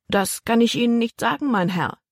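put-on boy stalling the tall man at the railing; polite boy, steady. A narrator's reading. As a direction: answer the stranger politely. Voiced boy.

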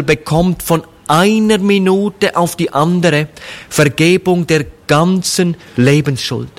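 ordinary talk, nothing marked

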